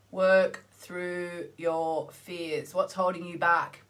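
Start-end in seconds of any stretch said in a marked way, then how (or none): 0.1-2.7 "Work through your fears" drawn out very slowly, each word weighted; slow emphatic repeat. Shown as a demonstration.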